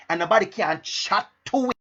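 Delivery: light Jamaican patois phrase; a hint of Jamaican patois. Shown as a demonstration. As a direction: slip briefly into Jamaican dialect. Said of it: "That's a Jamaican dialect".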